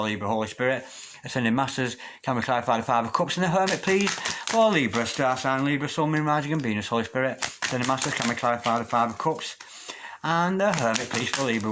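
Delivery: murmured prayer-like invocation to spirit guides. Acted. Tarot reader asks her spirit guides for clarity, prayer-like murmur.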